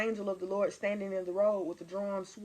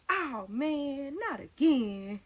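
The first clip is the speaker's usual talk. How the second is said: groggy son; 4 semitones higher, much slower than usual. Retold or imitated. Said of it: "He might get up and be like".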